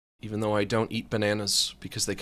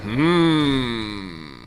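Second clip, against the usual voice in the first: cartoon hmm; 4 dB louder than usual. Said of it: "audible scratching sound from all the stubble".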